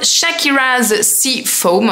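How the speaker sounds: Shakira's Sea Foam read with a knowingly clumsy French accent; English name in French accent. Real, not acted. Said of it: "vous savez que j'ai un accent, euh, anglais, du merveilleux".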